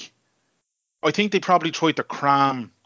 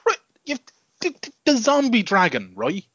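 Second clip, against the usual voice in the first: high, excited buildup; 7 semitones higher than usual. Real, not acted. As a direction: pitch up, eager to tell. Building up to a rant.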